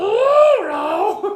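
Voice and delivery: very high, loud, stretched-out cry. Imitating the Mickey voice actor getting frustrated: frustrated Mickey Mouse voice. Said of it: "he gets the perfect Mickey, like".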